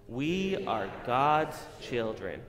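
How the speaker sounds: slow, loud, word by word; slow group lead. Shown as a demonstration. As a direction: lead the room, slowly. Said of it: "Can we all say it together?".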